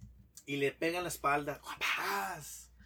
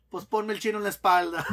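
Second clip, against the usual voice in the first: más fuerte, entre risas; remate entre risas; 4 semitones higher, 9 dB louder than usual. Acted. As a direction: suelta el remate riéndote. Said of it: "se pone a pensar". (el mexicano pide al chino en la espalda, riendo y fuerte)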